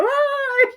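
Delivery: long, high mock wail; imitated bawling. Wife imitating herself crying like crazy, mock bawling. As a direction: burst into an exaggerated crying "ai". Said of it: "comecei a chorar, chorando que nem uma doida".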